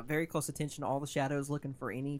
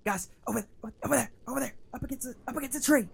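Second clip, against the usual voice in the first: excited calling out; 9 semitones higher, 4 dB louder than usual. Acted. Spotting an orc, calling out.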